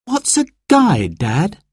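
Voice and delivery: put-on high, curious girl's question; child's voice. Sarah asking Dad about the badges, high curious voice. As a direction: ask in a high little voice.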